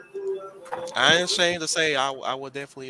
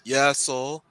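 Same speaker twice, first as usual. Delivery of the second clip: non-hiding federal agent; 2 semitones lower than usual. Acted. Agent fishing for news in a bar, lightly voiced federal agent. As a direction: play an obvious undercover fed, lightly. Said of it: "best non-hiding federal agent voice".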